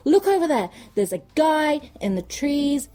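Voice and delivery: lightly hammed-up high warning; mock urgent warning; mock alarm. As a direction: point and warn, half-laughing. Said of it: "he is just like".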